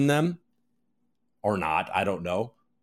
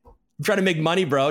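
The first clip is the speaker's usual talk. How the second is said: higher, louder, defensive protest; indignant retort; 4 semitones higher, 4 dB louder than usual. Real, not acted. Answering critics who call it a cash grab, indignant. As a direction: throw it back at the critics, offended.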